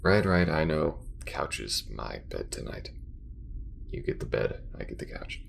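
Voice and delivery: halting, worn-out bedtime grumble; hesitate, then give in about the couch; drowsy resignation with bursts of protest; tired space crewmate. Acted. Acted character settles down to sleep.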